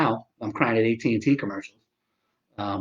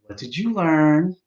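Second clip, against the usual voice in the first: deadpan sarcasm; 4 semitones higher, slower than usual. Retold or imitated. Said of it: "I go".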